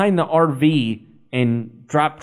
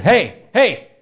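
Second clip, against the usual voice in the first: high, raised-voice catcall imitation; mock catcall; 8 semitones higher, 4 dB louder than usual. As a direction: call out like catcalling someone. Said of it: "you yelled, like, almost like you were, like, catcalling".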